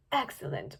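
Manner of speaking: soft breathy whisper; hushed excellent. A narrator's reading. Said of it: "whispered Opaline".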